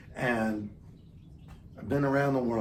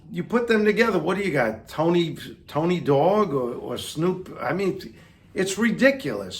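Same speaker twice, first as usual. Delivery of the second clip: incredulous rant; 4 semitones higher, 4 dB louder than usual. Real, not acted. Ridiculing a mashup.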